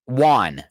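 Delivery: WON said with an AH vowel, like "wahn"; regional won. Shown as a demonstration. Host showing a hometown word, regional won. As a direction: say WON to rhyme with Juan. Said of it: "there will be things that I say".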